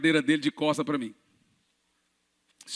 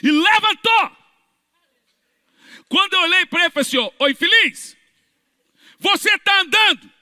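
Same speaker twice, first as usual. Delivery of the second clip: much higher, louder exclaim; excited shout; 12 semitones higher, 7 dB louder than usual. Real, not acted. Preacher exclaiming at the healed man, excited. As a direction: shout it in triumph.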